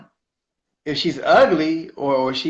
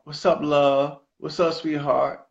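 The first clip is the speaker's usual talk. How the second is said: New Orleans greeting; slower than usual. Retold or imitated. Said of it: "that's how they talk".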